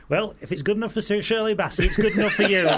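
high, loud, breaking into laughter; mock bloke voice dissolving in laughs; laughing punchline. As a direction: deliver it while cracking up.

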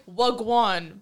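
"Wagwan" drawled as a London street greeting; Wagwan in a British accent. Retold or imitated. To friends, saying "Wagwan" like a British lad in a London accent. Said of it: "but, like, with a British accent".

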